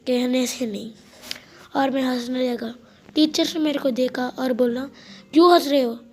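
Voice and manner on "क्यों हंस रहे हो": loud, sharp teacher's question; teacher's sharp scold. Retold or imitated. Teacher scolding a laughing boy, loud and sharp. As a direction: snap at the giggling kid.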